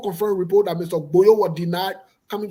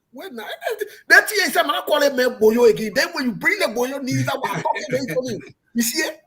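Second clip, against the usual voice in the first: laughing; 5 semitones higher than usual. Real, not acted. Laughs while protesting the naming.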